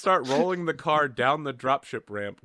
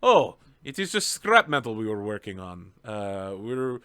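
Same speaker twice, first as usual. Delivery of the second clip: flustered doctor; 4 dB louder than usual. Acted.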